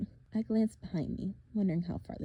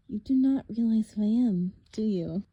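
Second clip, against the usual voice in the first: menacing villain; 2 semitones higher, 7 dB louder than usual. Acted. Villain voice for Thorne.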